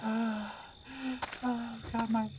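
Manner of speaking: breathless and shaky from fright; panting between words; out of breath. Real, not acted. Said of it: "I'm breathing really hard".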